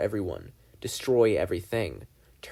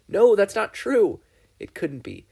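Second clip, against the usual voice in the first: loud, slow, higher cry of denial; desperate denial; 10 semitones higher, 7 dB louder than usual. Acted. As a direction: push it out, refusing to believe. Dipper's desperate inner denial.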